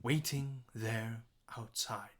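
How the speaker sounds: slow, with "Waiting" and "outside" leaned on; deliberate stress demo; stressed syllables. Shown as a demonstration. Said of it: "We have our stressed syllables".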